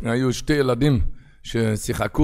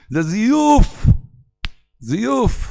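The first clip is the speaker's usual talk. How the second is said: scornful; 10 semitones higher, 5 dB louder, much slower than usual. Acted. Rebbe scolding the dreamer.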